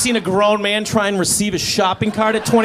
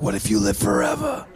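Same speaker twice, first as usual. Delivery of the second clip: mock hopeful villager; 9 semitones lower than usual. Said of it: "they were like".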